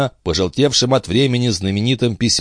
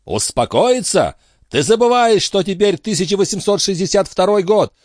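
higher, eager quizzing captain voice; a high-voiced captain grilling his friend; excitable old sea captain; 13 semitones higher than usual. A narrator's reading. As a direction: press him like a fussy old skipper. Antifer counts the years.

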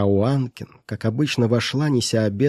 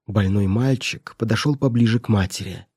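ordinary delivery

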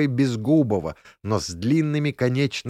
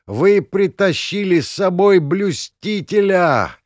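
shouting; 7 semitones higher, 4 dB louder than usual. Acted. Shouting as fog covers.

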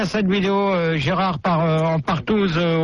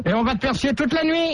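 higher, taunting threat; threatening; 5 semitones higher than usual. Acted. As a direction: taunt him menacingly. Canular, menace au téléphone. (menace moqueuse)

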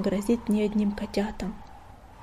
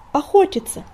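high squeaky kitten squeak; 9 semitones higher, 6 dB louder than usual. A narrator's reading. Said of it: "пискнул котёнок".

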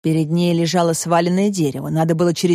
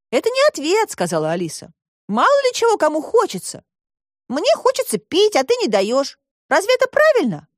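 put-on high girl's voice, reasoning; Alisa arguing; 12 semitones higher than usual. A narrator's reading. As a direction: argue back as a young girl, much higher. (высокий девичий голос, спорит)

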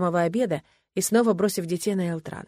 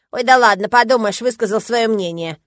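louder, higher dismissive cat; eye-rolling tone; 3 semitones higher, 8 dB louder than usual. A narrator's reading. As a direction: roll your eyes as you say it. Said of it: "произнёс кот таким тоном". (кот закатывает глаза, пренебрежительно)

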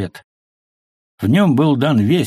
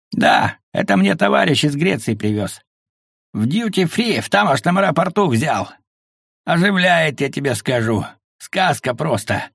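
cheerful tone; 5 semitones higher than usual. A narrator's reading. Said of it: "жизнерадостным тоном ответил Мося".

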